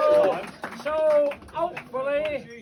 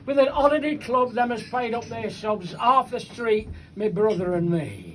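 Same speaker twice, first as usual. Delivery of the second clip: bouncing rhymed verse, line by line; comic poem recitation. Acted. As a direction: recite it to a live crowd.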